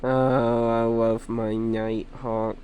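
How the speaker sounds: soft musing. Real, not acted. Dreamy musing about Nighthawk.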